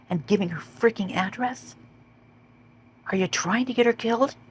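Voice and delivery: from near whisper to high outraged cry; real outrage. Real, not acted. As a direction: let the disbelief push the voice up and up. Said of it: "I'm hot, man".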